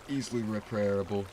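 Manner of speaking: words broken by a hiccup; hiccuping mid-word. Real, not acted. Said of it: "I don't know why I'm hiccuping now".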